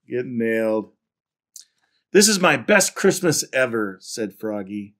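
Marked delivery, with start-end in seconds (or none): 2.1-5.0 animated picture-book reading; story narration. A narrator's reading. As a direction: read it out to children with lively emphasis. Reads picture book aloud.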